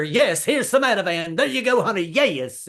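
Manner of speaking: high, sing-song soothing to wife; pushing pills with fake sweetness; mock soothing husband. Husband soothing guilty wife, high and sugary.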